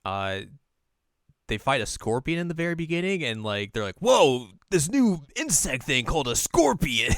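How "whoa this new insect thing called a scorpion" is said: slow, loud mock wonder; hammed-up gasp of discovery; mock amazement. Mocking characters' amazement.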